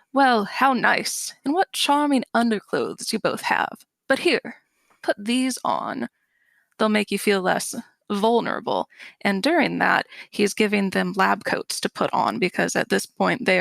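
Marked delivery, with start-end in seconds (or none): 0.1-8.9 a hint of Frank. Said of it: "And Frank then says".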